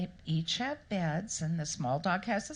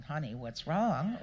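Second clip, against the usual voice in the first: lower, gentle and caring question with a little laugh; tender; 4 semitones lower than usual. Retold or imitated. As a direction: soften it like a loving husband. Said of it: "That was a little different than".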